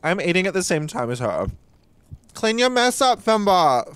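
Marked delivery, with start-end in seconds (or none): 2.3-3.9 a hint of a scolding mum, higher; nagging mother. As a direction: playfully nag like a mother. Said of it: "I feel like your mother".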